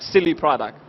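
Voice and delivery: ordinary delivery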